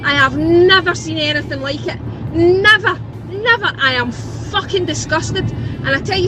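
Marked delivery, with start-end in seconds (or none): 0.0-3.7 NEVER hit hard in repeats; stress on never. Real, not acted. Caller ranting about flags in estate, hammering never. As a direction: hammer the word never, then again. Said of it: "I'm doing a ranty tanty".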